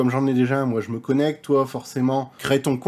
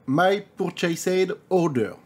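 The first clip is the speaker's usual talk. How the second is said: slow, higher English with a French tongue; show-off English accent; 4 semitones higher, much slower than usual. Shown as a demonstration. Reading the account menu to viewers, show-off English accent. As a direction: draw out the English, proud of the accent. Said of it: "Vous avez vu l'accent anglais?".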